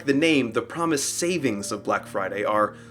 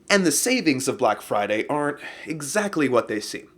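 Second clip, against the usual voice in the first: ordinary talk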